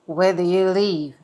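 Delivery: lightly voiced nosy Karen; mock the nosy question. Imitating the nosy white woman lightly.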